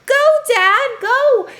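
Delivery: high, loud cheer for the dad; root for the dad to hold firm; cheering him on. Retold or imitated. Watching the dad refuse the book, excited cheer. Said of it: "So I was like".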